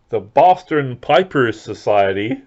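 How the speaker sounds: slow, badly faked Boston accent; failed Boston accent. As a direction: have a clumsy go at a Boston accent. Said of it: "that accent's not Boston".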